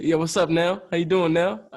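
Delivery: A rapper. Retold or imitated. Rapper greeting the speaker by name, lightly imitated smooth voice. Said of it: "You know how he talks".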